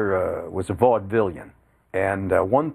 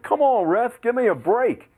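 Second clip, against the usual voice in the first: high, punchy plea to the referee; retold sportscaster outcry, pitched high; exasperated protest; 12 semitones higher than usual. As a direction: call out a bad decision.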